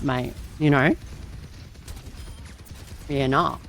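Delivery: lightly put-on Aussie tradie voice; Aussie bloke accent, relaxed. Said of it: "we're now Aussie tradies for the next round".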